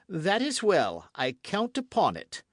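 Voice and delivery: seal it with triumph; satisfied king. A narrator's reading. King retiring from the queen, triumphant. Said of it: "The king went away enchanted".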